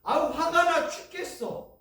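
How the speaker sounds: high, loud fed-up outburst; angry grumble. Retold or imitated. Believer venting anger before turning it to prayer. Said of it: "이건 엄청난 기도예요".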